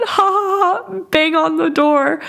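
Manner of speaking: high, giggly imitation of a friend's laugh; imitating laughing friend. Friend on FaceTime telling her to bang the door, laughing. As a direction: laugh through the advice, mock giggles. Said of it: "We laugh".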